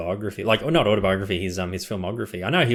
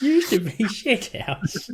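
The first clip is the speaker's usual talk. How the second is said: laughing echo; 13 semitones higher, much slower than usual. Retold or imitated. Echoing the film joke.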